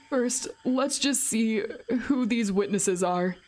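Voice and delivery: a hint of a worried young man thinking; reading as Keiichi. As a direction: read the protagonist's thoughts, calm and measured. Voicing Keiichi's thoughts aloud.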